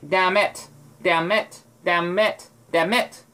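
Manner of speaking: "Damn it" repeated with a clipped M; short M. Shown as a demonstration. Showing the short M in damn it. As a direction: say "Damn it" with a quick M. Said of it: "a really short M".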